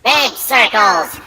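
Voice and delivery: big circles drawn out slowly; slow, savoured repeat. Pretend. Friend repeating the Dalek joke, slowly savouring it. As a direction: stretch each word to milk the joke.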